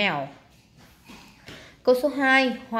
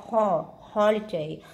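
"holiday" with weight on "ho"; first-syllable stress; slower than usual. Shown as a demonstration. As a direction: lean on the "ho" in "holiday", slowly. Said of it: "đọc mạnh hơn cái âm o".

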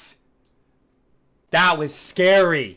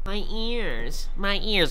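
pained; 7 semitones higher, much slower than usual. Real, not acted. Loud game noise hurts.

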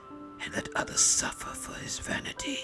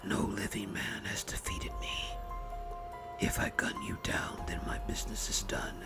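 soft, raspy whispered menace; dry, dusty whisper; 8 dB quieter than usual. A narrator's reading. Longfellow offers the baron his deal in a menacing whisper. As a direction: whisper the deadly bargain like scraping dead leaves. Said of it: "came as a dry and dusty whisper".

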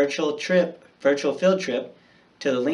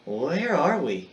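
wondering aloud; 3 semitones higher, slower than usual. Acted. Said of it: "he wondered aloud".

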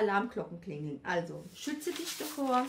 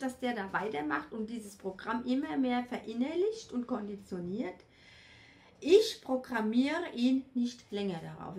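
loud declaration; 2 semitones higher, 4 dB louder than usual. Shown as a demonstration. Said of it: "Und sage ganz laut".

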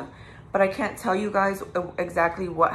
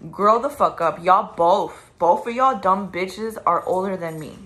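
angry; 4 dB louder than usual. Real, not acted. Angry rant at couple.

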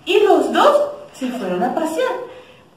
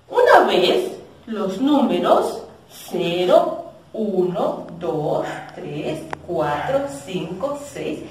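put-on reading to children. Storytelling to children.

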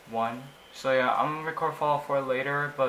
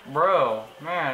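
louder, exasperated at the game; real exasperated louder bro; exasperated outburst; 7 dB louder than usual. Real, not acted. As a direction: blurt it out louder in disbelief.

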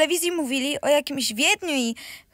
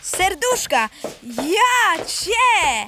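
teasing; slower than usual. Acted. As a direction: crow it to the whole room. Brother teases sister about love.

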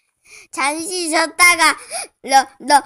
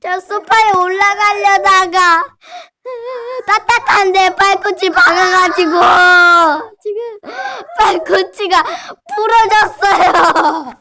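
crying while talking. Real, not acted. Tearful report of broken heel.

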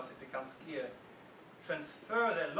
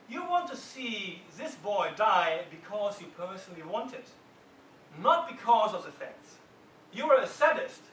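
building taunt; 3 semitones higher, 6 dB louder than usual. Retold or imitated. Fonda taunting juror three.

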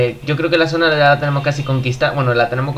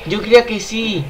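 raging gamer; 8 semitones higher than usual. Real, not acted. Frustrated at losing the match.

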